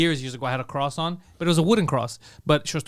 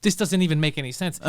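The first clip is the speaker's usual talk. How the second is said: weary cop; 4 semitones lower than usual. Retold or imitated. Weary cops after sigh.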